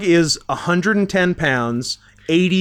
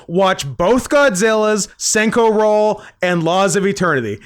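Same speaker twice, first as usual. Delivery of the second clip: all-caps demand; 4 semitones higher than usual. Retold or imitated. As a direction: read it out like an all-caps text. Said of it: "responded in all caps".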